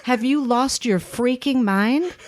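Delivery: incredulous. Acted. Mock outrage at a silly question.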